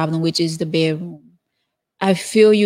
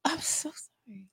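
whispered apology; 5 semitones higher, 14 dB quieter than usual. Real, not acted. Apology after tagging mix-up.

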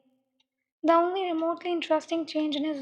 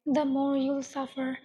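slow, far-off menacing voice; lightly voiced cruel killer, slow; cold killer taunt; slower than usual. Killer to crying victim, slow cold menace.

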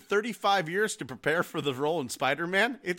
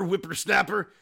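Macho Man voice; 2 semitones higher, 3 dB louder than usual. Retold or imitated. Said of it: "as fucking Space Ghost's dad".

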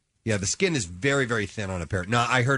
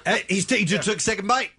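laughing; 8 semitones higher than usual. Real, not acted. Fruit tasting, laughs at bite.

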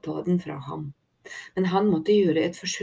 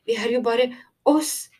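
high, pleading protest; anxious stammer; 6 semitones higher, 4 dB louder than usual. A narrator's reading. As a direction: plead nervously, rising at the end. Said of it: "stammet Tico". (engstelig, høy og bedende stemme)

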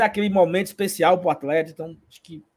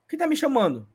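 imitated woman; 7 semitones higher than usual. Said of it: "a mulher olha assim".

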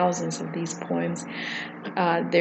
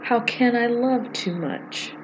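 slow, measured verse with pauses; poem reading. Acted. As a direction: read it line by line, letting each phrase stand. Reads a poem aloud.

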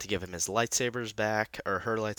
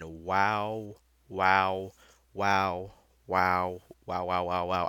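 repeated wows, louder and amazed; 3 dB louder, much slower than usual. Real, not acted. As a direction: gush wow after wow at an amazing episode. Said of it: "I literally cannot say wow enough".

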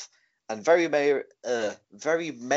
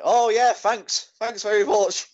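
high, eager comic thanks; loud, oblivious put-on gratitude; mock misunderstanding; 11 semitones higher, 5 dB louder than usual. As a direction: gush thanks in a silly high voice. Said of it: "it's sort of, like, misunderstanding".

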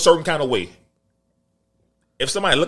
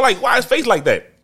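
laughing mockery; 7 semitones higher, 4 dB louder than usual. Real, not acted. Mocking actor's looks, laughing.

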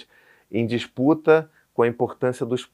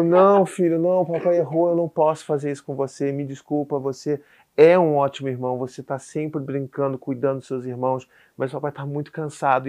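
higher, insistent mock-weepy pleading; retold tearful apology; 4 semitones higher than usual. Dad reassuring his son after sarcasm, imitating tearful pleading. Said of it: "começava a chorar ainda mais".

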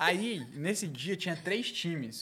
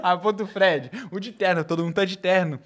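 exasperated loud complaint; 4 semitones higher, 10 dB louder than usual. Retold or imitated. Exasperated retelling of the crowd.

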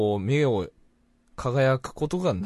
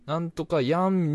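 higher, drawn-out Fukuoka "やん" ending; demonstrated newer Fukuoka phrase; 4 semitones higher, slower than usual. Shown as a demonstration. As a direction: stretch out the modern Fukuoka "やん". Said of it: "になってきてんのね".

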